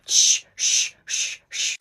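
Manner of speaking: urgent whispered shushing; whisper yelling. Acted. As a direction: shush her fast. Hushing the crying friend.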